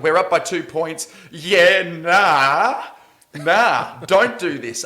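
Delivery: high, loud, anxious begging; nervous pleading. Retold or imitated. Fan pleading with the coach up by two points, high and anxious. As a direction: beg the coach not to blow the lead. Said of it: "I was like".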